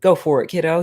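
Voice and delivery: a lightly voiced father talking his son into it; swaggering dad. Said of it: "He's like".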